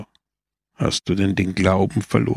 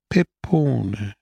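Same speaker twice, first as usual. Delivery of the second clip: gently. A narrator's reading. Priest gently begins to reason with the mayor. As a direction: start gently, calming him. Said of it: "begann Don Camillo sanft".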